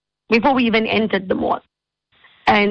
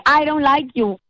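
mock child scream; 6 semitones higher than usual. Spoiled boy yelling at the host, mock scream. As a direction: shout it as a spoiled child would. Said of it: "he just started screaming at me".

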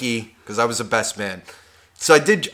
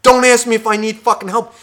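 inner rant; 6 semitones higher than usual. Retold or imitated. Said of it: "in my head".

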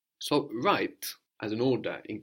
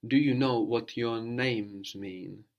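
slow prompt; slower than usual. Shown as a demonstration. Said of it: "to more than one person".

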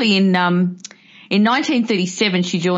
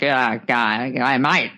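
put-on lower, broad Australian farmer accent; 6 semitones lower, much slower than usual. Imitating 1940s Australian farmers, lower broad Australian accent. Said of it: "the farmers that were all like".

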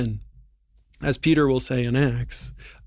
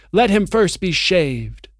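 cold witch order; 5 semitones higher, 5 dB louder than usual. Acted. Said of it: "said the witch".

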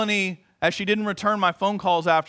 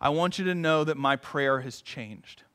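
quietly; 7 semitones lower, 7 dB quieter than usual. Retold or imitated. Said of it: "said very quietly".

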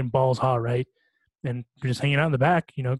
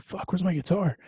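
put-on light Canadian accent, a bit higher; imitating a friend's Canadian accent, a bit higher; 5 semitones higher, 4 dB quieter than usual. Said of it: "In his Canadian accent".

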